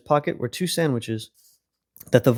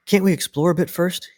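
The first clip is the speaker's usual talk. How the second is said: put-on a young mouse pleading, pitched up; begging; 6 semitones higher than usual. A narrator's reading. Young Wilfred begs Mister Apple to stay. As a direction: ask like a hopeful child. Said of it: "he begged".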